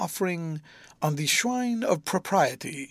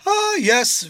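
a higher, louder sighed Ah, yes; wistful sigh; 12 semitones higher, 9 dB louder than usual. A narrator's reading. Rosa sighs over her last birthday.

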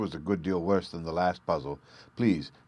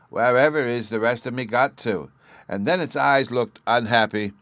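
put-on high, eager child voice; little boy Bruno; 5 semitones higher, 5 dB louder than usual. A narrator's reading. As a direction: chatter like an excited small boy.

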